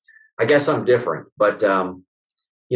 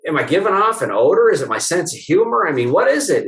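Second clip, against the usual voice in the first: mock pleading; 5 semitones higher than usual. Chiropractor pressing his patient about referrals, mock pleading. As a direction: plead with her, half joking.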